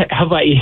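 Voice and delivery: "Hawaii" with W said as V; corrected Hawaiian pronunciation. Shown as a demonstration. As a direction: repeat "Hawaii" corrected to huh-VAH-ee. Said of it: "you're right".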